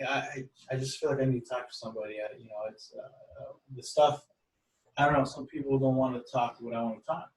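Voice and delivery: halting, soft-edged retelling of a shy man; timid. Retold or imitated. Young man confiding in a stranger, mildly timid. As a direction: stumble hesitantly as if imitating a nervous confider. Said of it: "a little timid".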